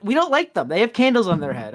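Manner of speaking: high, flat-out silly quest giver shrugging it off; dismissive quest giver. Retold or imitated. Quest giver explaining to the player, high and dismissive. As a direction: toss off a childish excuse.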